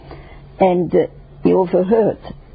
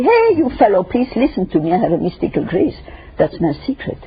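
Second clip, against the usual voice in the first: mock rooftop boast; 2 semitones higher than usual. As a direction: boast to the crowd below. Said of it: "go on rooftop and say".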